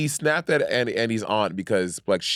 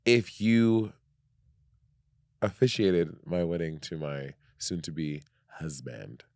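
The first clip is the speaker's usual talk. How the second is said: heartfelt plea; 5 semitones lower, slower than usual. Pretend. Mock formal plea to RuPaul.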